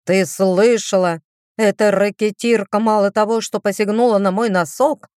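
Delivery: pompous little mouse, outraged; a puffed-up mouse blustering; indignant mouse. Acted. Mouse character Baxter rants.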